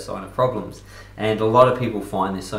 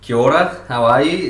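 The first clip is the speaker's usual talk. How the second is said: greeting; 4 semitones higher, 8 dB louder than usual. Real, not acted. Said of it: "New Zealand".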